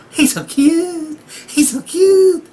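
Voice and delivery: high, gushing fangirl squeal; swooning fan. Retold or imitated. Women seeing Loki, high gushing swoon. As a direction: gush over him like a smitten fan. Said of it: "they're like".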